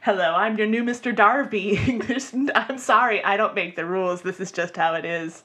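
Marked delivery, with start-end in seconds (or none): 0.0-2.0 lightly put-on British charm; a hint of a posh British leading man; mock British romantic lead. Host auditioning as British romantic lead, lightly accented. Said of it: "I am the romantic British lead now".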